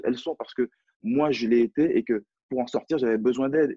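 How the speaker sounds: impassioned, pitch lifting in bursts; really worked up; getting fired up. Real, not acted. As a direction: speak with rising conviction, carried away by the subject. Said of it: "c'est moi qui m'enflamme".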